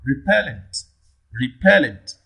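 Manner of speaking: Repellent with PEL standing out; stress on second syllable. Shown as a demonstration. Teacher asks where stress falls, Repellent stressed on PEL. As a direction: punch the middle syllable of Repellent, then fall. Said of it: "On the second syllable".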